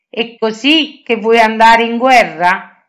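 mild surprise at his outfit; astonished. Acted. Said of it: "si stupì Athos". (lieve stupore, un po' più forte)

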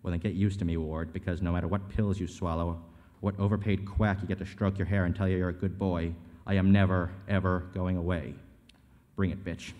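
forceful, accusing script read; hard-driving acted argument; heated confrontation. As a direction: tear into them in a tense showdown. Acted graveside confrontation in script reading.

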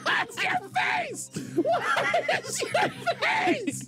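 slow laughing. Real, not acted. Watching a reaction, laughing.

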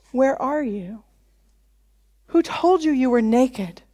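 soft, tender questions; God's voice played gently, without reproach; gentle questioning. God's gentle questions, against the scolding.

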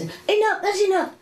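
high mock nagging voice; imitating the resident. Teacher mimics the old resident shooing cooks away, high and fussy. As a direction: shoo people off in a high fussy voice. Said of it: "she says".

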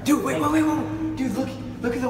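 excited. Real, not acted. Spots mist in tunnel.

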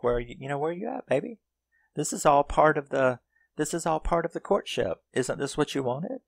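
high-pitched mock-seductive teasing; singled-out prey, teased in falsetto; taunting. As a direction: imitate a woman toying with him. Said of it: "starts taunting him".

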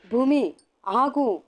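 urgent call to stop. A narrator's reading. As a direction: call her back as she runs. Calling after fleeing wife.

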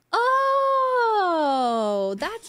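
long, high cooing sound sliding down; cooing aww. Real, not acted. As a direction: coo adoringly, high and drawn out. Cooing at sleeping Yuna.

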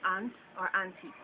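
"aunt or auntie" with an open Jamaican vowel; Jamaican pronunciation. Shown as a demonstration. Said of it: "In Jamaica".

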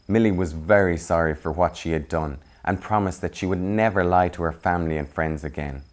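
gentle, even storybook reading; story narration. A narrator's reading. Reading a children's picture book aloud, gently. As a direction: read it like bedtime story time.

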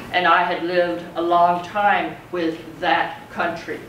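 slow, measured poem reading. Acted. Teacher reading James Kimball's poem to the class, slow and measured. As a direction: read it slowly, letting each image land.

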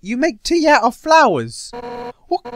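appalled, high and loud disbelief; loud, scandalised question; incredulous outrage. Acted. Undyne outraged at flower tea.

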